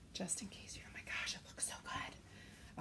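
soft, hushed whispered aside. Talking to viewers about the colors in their kit, whispering. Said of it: "I'm gonna stop whispering that".

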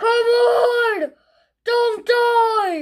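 high, loud, panicked crying shout full of terror.

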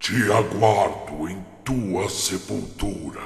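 throaty voice from the throat. Narrator reads the words of a voice coming out of the radio, guttural voice. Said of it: "uma voz gutural saiu de dentro do aparelho".

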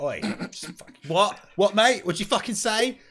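confrontational jeer. Voicing a character who shoves a robot: in-character taunt picking a fight. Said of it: "I'm just gonna push it. Just like".

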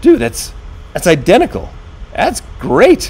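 high, surprised gasp, then exclaiming. Seeing his new avatar in the mirror view for the first time, gasping.

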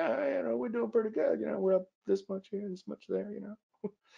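very high, creaky, bragging voice. Retelling bragging to a wife about trading profits: talking like Bill Clinton. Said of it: "I don't know why I'm talking like Bill Clinton".

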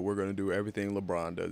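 plain

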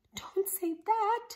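startled, frightened little squeak, high. Alice, beside Alvin at the pie, speaks up: squeaked in fright. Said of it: "squeaked Alice in a fright".

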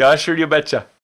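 put-on Minnesotan accent. Podcast co-host chiming in on how they talk, in a Minnesotan accent.

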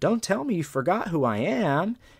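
playful mocking tone. Retelling teasing a woman after winning a race: retelling a mocking taunt. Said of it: "Like in a mocking".

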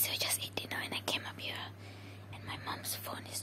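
secretive, hushed, breathy whisper. Vlogging upstairs after dinner while mom is downstairs, whispering to viewers. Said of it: "I don't know why I'm whispering".

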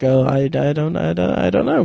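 terrible put-on voice, creaky, halting and stammering. Describing a documentary host's manner: terrible Jeff Goldblum impression. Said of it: "that's a terrible Jeff Goldblum impression".

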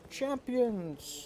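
mock high, sweeping announcer-style cry.

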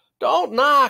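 high, pleading, begging tone. At a warehouse door, one companion begs the others, pleading. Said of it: "Grover pleaded".

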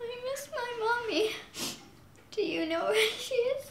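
high, tearful, weeping, spoken through tears. Answering another child who asks about the crying: crying while talking. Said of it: "Why are you crying?".

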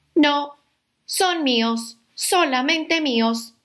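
grumpy shouting, high-pitched and drawn out. Narrator voices the grumpy ladybug refusing to share the aphids, shouting. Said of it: "gritó la mariquita malhumorada".

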